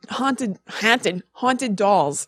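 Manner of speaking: saying haunted with a New York vowel, hahnted; weird haunted. Real, not acted. Friend notices her saying haunted oddly, Long Island vowel. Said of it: "Why am I talking weird?".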